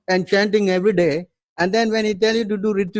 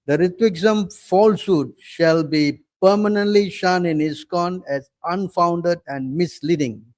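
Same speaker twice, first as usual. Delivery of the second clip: solemn reading. Acted. Reading out the opponents' resolution.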